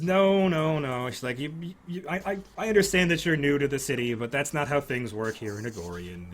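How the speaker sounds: lecturing the newcomer; lightly voiced noblewoman.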